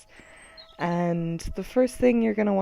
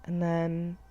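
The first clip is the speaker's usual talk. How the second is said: measured body-scan guidance, long pauses; guided meditation; 3 dB quieter than usual. Acted. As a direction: count them through tensing and releasing.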